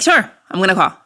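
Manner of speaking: easy, noncommittal mock assurance; casual stalling. Agreeing with ex to call while stalling, casual. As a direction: put them off casually.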